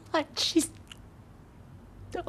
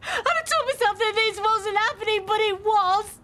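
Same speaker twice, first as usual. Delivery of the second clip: tearful; 4 semitones higher than usual. Acted. Distraught confession to husband.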